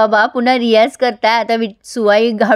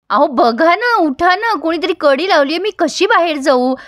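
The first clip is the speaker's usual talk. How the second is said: higher, urgent cries for help through a locked door; panicked call; 5 semitones higher than usual. Retold or imitated. Locked-in wife calls her husband in a panic, pitched up. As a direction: plead to be let out, voice pitched up.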